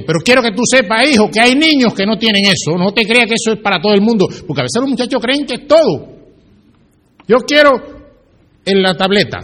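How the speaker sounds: preaching with force. Acted. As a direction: drive it home to the congregation. Preacher drives the point home. (predicando con insistencia)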